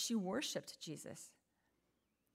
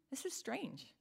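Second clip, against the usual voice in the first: hushed aside to the congregation; whispered wonder at the text; 5 semitones higher, 6 dB quieter, slower than usual. Real, not acted. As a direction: drop to a puzzled whisper. Pastor muses on Jesus' silence.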